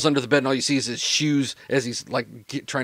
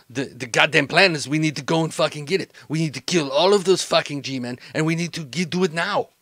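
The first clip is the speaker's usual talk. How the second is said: agitated criminal associate; 4 semitones higher than usual. Acted.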